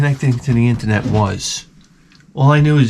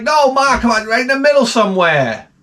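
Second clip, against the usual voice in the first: high, pleading correction; exasperated; 11 semitones higher than usual. Retold or imitated. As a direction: plead with Ma, fed up. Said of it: "You're like".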